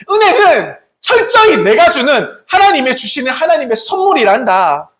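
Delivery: lightly voiced divine admonition, building in force; emphatic proclamation rising toward the end; the Lord speaking. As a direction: declare it as the Lord correcting His people. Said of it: "우리 주님께서는 우리에게 이렇게 말씀하십니다".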